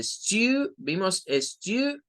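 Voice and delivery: stew with a drawn-out oo; long U. Shown as a demonstration. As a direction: stretch the vowel in stew. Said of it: "es una U larga".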